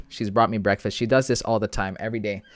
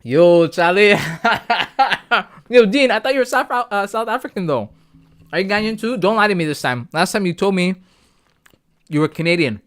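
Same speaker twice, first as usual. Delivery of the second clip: excited calling out; 8 semitones higher, 7 dB louder than usual. Real, not acted. Calling out to chat friends.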